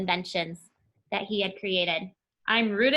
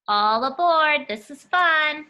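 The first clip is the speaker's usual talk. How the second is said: cheerful call; 4 semitones higher, 6 dB louder, slower than usual. Acted. Reading excited character line.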